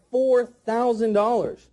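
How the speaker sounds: FOUR THOUSAND DOLLARS slow and weighted; weighty price delivery. Shown as a demonstration. Trainer modelling the first price drop, slow and weighty. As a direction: stretch out each word of "four thousand dollars". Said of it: "you gotta say it like that".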